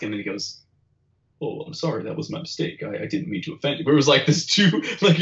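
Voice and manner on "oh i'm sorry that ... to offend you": imitating a meek, hushed apology; soft-spoken. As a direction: drop to a soft, half-whispered apology. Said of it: "it was this soft-spoken person".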